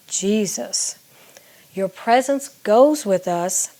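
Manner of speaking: unhurried recitation of the chorus draft; reading lyrics aloud. Shown as a demonstration. Songwriter reading the chorus draft to viewers, slow and measured. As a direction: speak the lines slowly, letting each phrase land. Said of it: "here's what I had that became the chorus".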